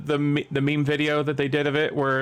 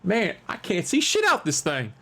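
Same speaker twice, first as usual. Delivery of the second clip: muffled robber complaint; 4 semitones higher, slower than usual. Pretend. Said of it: "be like".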